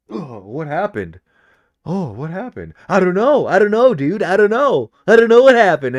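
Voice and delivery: selling a fake knockout, mock bewildered; hammed-up dazed. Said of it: "And you gotta play it up".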